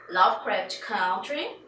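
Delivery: slow, drawn-out American English in a mock Mississippi accent; a playful mock Mississippi accent on the English title; joking Mississippi accent. Real, not acted. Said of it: "meu sotaque é muito do Mississippi".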